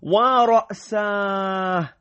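high, moaning cry of head pain; hammed-up groan of pain; pained wail.

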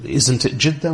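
"Jeddah" with a short i, Jiddah; kasra pronunciation. Acted. Objector questioning the lecturer, "Jeddah" said with an i. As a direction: ask it with "Jeddah" as JID-dah. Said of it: "People often raise objections".

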